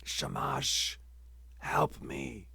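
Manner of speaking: tiny, breathless plea, near silent; squeaked plea. Acted. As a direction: force it out through a frozen throat. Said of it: "he squeaked out".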